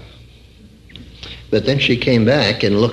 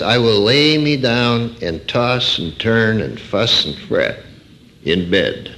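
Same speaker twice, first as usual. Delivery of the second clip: fretful wrong version; slower than usual. Shown as a demonstration. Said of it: "it doesn't go like this".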